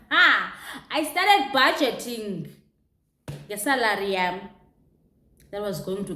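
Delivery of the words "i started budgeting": giggling through it, slow and higher; laughing. Real, not acted. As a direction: laugh out the words as you say them. Laughing while recalling planning.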